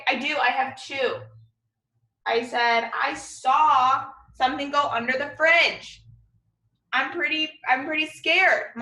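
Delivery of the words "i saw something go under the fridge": excited. Shown as a demonstration. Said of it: "So I'm excited".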